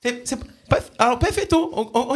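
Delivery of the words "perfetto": "perfetto" said as pɛfɛto, lifted and bright Italian style; mock Italian perfetto. Prank caller tries a fake accent on the owner, mock Italian. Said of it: "On dit perfetto?".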